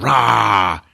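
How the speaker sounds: short mock monster roar; beast snarl. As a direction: roar as you make a grab. Beast grabs the glaive.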